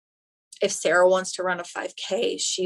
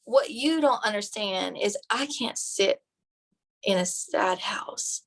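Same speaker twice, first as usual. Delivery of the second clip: grandfather's voice; slower than usual. Retold or imitated. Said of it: "he goes".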